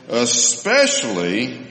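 Especially drawn out slowly with a rising tune; Especially stretched and lifted for emphasis; stressed word. Shown as a demonstration. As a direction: lean on Especially to make the point. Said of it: "Do you see that emphasis there".

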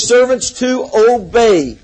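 "obey" set off and leaned on; stress on obey. Real, not acted. Preacher reading scripture to make a point, stress on "obey". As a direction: lean firmly on the word "obey". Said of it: "I stress that word".

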